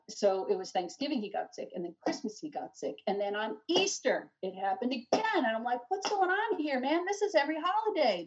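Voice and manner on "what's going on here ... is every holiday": high, incredulous exclamation; exasperated. Retold or imitated. Mother retelling yet another holiday illness, exasperated. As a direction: protest in retold bewilderment.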